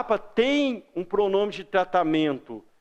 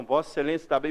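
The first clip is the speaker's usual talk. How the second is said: lower, careful and deferential; formal respectful address; 4 semitones lower, much faster than usual. Shown as a demonstration. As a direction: speak up to a judge. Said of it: "Não". (tom formal e respeitoso)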